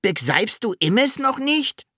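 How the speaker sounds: high voice, "Begseifst" with s for r; dragon unable to say R. A narrator's reading. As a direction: say "Begseifst" and "Immes" without any R, pitched high. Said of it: "sagte der Drache".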